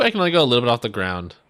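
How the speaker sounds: quick, let-down statement; disappointed realization. Real, not acted. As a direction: rattle off the letdown. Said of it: "This is a little disappointment".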